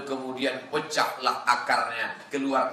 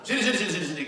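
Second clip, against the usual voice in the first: calling out; 5 semitones higher, much faster than usual. Acted. Calling a child over.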